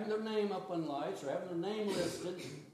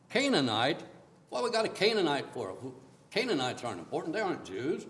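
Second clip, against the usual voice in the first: mock scornful; 2 semitones lower, 6 dB louder than usual. Mocking disdain for Canaanites.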